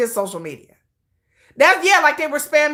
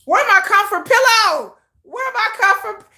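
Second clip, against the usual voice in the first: mock desperate call; 5 semitones higher than usual. Calling out for comfort pillow.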